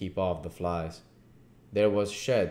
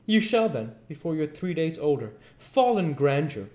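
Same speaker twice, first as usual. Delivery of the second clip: grandiose duke; 9 semitones higher, 6 dB louder than usual. Acted. Duke voiced in the story.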